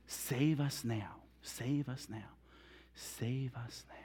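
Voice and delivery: fading plea. Shown as a demonstration. Teacher repeating what Hosanna means, slow and fading. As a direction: let it die away to near whisper.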